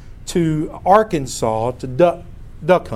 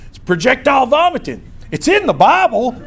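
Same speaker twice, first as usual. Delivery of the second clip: higher, louder, laughing through it; laughing kid; 9 semitones higher, 4 dB louder than usual. Retold or imitated. Boy proudly telling the guide, laughing through it. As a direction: blurt it out proudly while cracking up. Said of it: "And he goes".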